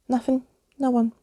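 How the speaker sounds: high, loud panicked cry; panicking and begging him back; panicked screech. A narrator's reading. Nervous skeleton shrieks at the intruders in panic. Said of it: "screeched Skeleton Keys in panic".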